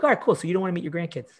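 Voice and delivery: chirpy put-on approval, dripping with sarcasm; sarcastic retort. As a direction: fake breezy all right cool before landing the blow. Retorting to client's excuse.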